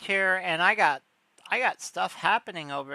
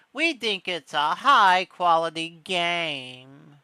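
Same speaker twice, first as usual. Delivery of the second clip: posh voice; 4 dB louder, slower than usual. Retold or imitated. Mocking Nintendo's pricing in a put-on posh voice. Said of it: "like, a posh voice".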